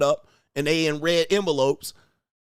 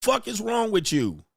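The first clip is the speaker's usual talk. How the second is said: mock furious rant; 6 semitones higher than usual. Husband ranting at his wife over diapers and dishes, outraged. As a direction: play the husband blowing up over chores.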